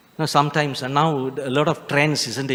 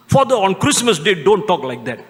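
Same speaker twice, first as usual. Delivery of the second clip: mock scolding; 3 semitones higher, 5 dB louder than usual.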